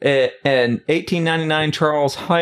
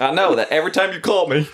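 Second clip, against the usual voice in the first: laughing comeback; 3 semitones higher, faster than usual. Real, not acted.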